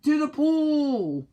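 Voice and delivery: high, loud, slow yell. Acted. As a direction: shout it out to the crowd. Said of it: "yelled the firemen".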